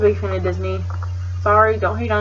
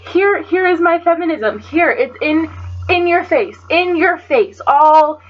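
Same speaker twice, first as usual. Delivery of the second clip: higher, pushy mock voice; mocking impression of Sam; 4 semitones higher than usual. Mocking friend Sam flaunting her feminism, pushy higher voice. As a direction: lay it on thick like you're shoving it at them. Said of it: "Like, like".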